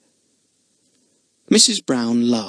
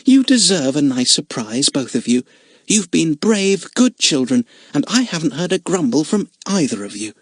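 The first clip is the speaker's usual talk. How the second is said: gentle caravan mother, a bit higher; kindly motherly woman; 4 semitones higher than usual. Acted. Mrs Brown praises children.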